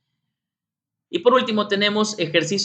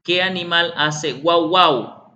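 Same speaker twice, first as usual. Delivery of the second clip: put-on asking a child; 3 semitones higher, 5 dB louder, slower than usual. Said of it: "A ver".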